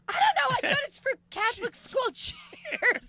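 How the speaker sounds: very high-pitched, mock-helpless excuse; flustered protest. Comedian excusing themself to angry widow, flustered protest. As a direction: plead ignorance in a squealing retelling.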